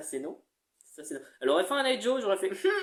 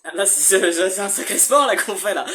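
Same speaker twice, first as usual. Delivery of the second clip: laughing; 7 dB louder than usual. Real, not acted. Laughing at the hard exercise.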